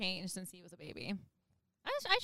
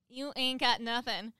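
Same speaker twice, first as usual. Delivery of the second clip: a slower Southern drawl, a touch higher and louder; Southern accent; 4 semitones higher, 4 dB louder, slower than usual. Acted. Teasing a friend in a put-on Southern accent. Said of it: "you sound like a true Southerner now".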